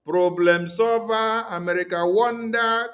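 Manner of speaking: slow, mocking "Problem solver"; sarcastic drawl. Shown as a demonstration. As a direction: stretch "Problem solver" out slowly in scorn. Mocking America as saviour.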